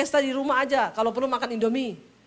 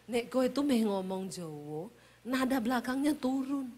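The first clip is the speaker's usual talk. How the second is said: soft Javanese husband; 7 dB quieter than usual. Retold or imitated. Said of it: "Lalu dia kasih saya tips".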